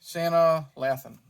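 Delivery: Sanaa Lathan slowly, "LATH-un" with short a; careful name pronunciation. Shown as a demonstration. Vlogger testing the actress's name, "Sanaa Lathan" slow, short a in Lathan. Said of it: "How do you say it?".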